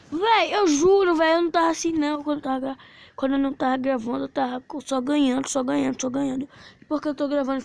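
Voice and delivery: loud exasperated gamer rant; frustrated rant. Real, not acted. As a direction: vent at the audience. Frustrated rant after losing.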